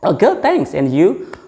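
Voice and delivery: upbeat reply. Shown as a demonstration. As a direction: chirp the answer brightly. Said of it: "Just we can say". (jawaban ceria dengan nada sangat tinggi)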